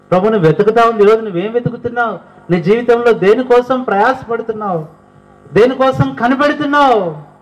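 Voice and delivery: high, urgent questions thrown at the crowd; fervent preaching. Acted. Preacher presses the congregation. (ఉత్సాహంగా బోధించే స్వరం)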